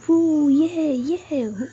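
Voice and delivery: high, loud whoop of glee; gleeful shout, easing off at the end; loud squeal. A narrator's reading. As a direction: cheer like someone being spun round. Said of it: "रुई जोर से चिल्लाती है".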